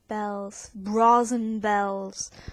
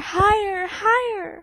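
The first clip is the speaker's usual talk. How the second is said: put-on loud, high, climbing cry in an English accent; ringing cry; 8 semitones higher, 6 dB louder than usual. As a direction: fling the words up and out. Climactic opening of poem.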